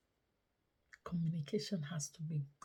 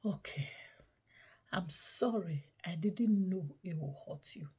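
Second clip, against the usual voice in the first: gentle, hushed sorry; soft apology. Retold or imitated. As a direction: apologize tenderly. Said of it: "come up with this voice and say".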